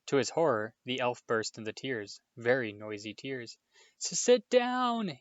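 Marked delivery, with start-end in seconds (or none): 4.0-5.2 much higher, loud, slow wail. A narrator's reading. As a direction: wail it through tears. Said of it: "he wailed".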